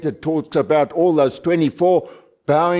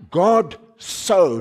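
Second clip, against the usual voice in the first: higher-pitched, held "so" after "God"; stress on SO; 4 semitones higher than usual. Shown as a demonstration. Preacher isolating the wrongly emphasized word, stressing SO. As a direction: linger on SO and stop there. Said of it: "The wrong emphasis".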